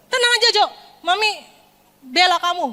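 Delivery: high, emphatic acted mum; protective mother. Mother promising to defend her bullied son, protective. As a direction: jump in high to defend the child. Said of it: "sebagai orang tua?".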